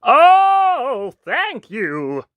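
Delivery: high, gushing cry of thanks; prince crying out. A narrator's reading. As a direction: swoop up high with grateful relief. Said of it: "the prince cried".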